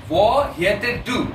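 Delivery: Norwegian phrase read out slowly; slow, careful Norwegian; slow read-aloud. Shown as a demonstration. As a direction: spell it out slowly for the learner. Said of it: "তাহলে দেখেন".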